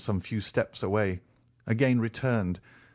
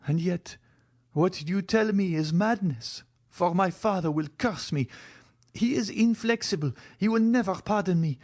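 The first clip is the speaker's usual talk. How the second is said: put-on higher, pleading young woman; Valentine's voice; 9 semitones higher than usual. A narrator's reading. Valentine's lines.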